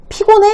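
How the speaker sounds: demonstrating how not to ask 피곤해; leading question. Shown as a demonstration. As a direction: ask 피곤해 in a high, pressed voice. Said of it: "이렇게 묻지 말라는 거죠".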